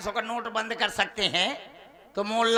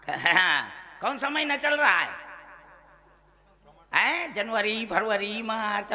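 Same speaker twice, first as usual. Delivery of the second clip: normal talking voice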